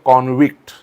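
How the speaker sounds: कॉन्व्हिक्ट stressed on the first syllable, CON-vict; noun stress. Shown as a demonstration. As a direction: say कॉन्व्हिक्ट as KON-vikt. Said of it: "noun म्हणून त्याचा उच्चार होतो".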